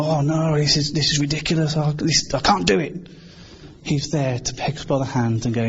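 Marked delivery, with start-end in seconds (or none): 0.0-3.1 mild exasperated wail; mock overwhelmed protest. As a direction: give up in mild dismay. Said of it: "as we start to go".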